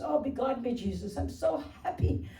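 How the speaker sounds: relieved call-centre agent in a put-on Irish accent; hammed-up happy Irishman, comic Irish accent. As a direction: gush with mock relief in an Irish brogue. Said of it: "what part of Ireland are you from".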